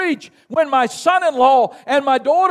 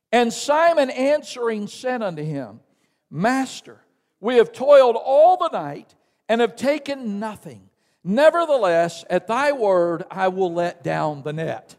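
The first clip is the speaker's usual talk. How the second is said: reading scripture together; 2 semitones lower than usual. Real, not acted. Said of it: "Will you read this with me".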